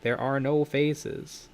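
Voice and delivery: creepy robot voice. Retold or imitated. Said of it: "a creepy robot voice saying".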